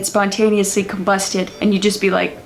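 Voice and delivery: friendly, flattish Midwestern accent. Shown as a demonstration. Impressionist shows off a favorite, friendly Midwest accent. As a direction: chat away like a friendly Midwesterner. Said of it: "Midwestern accent, one of my favorites".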